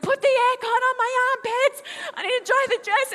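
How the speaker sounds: bratty high, loud demand; hammed-up petulant yell; ultimate brat mode. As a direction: order dad about from the back seat. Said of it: "ultimate brat mode".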